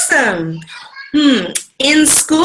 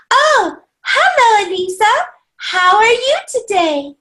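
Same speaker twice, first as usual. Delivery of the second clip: bright greeting; 5 semitones higher than usual. Acted. Teacher greets child brightly.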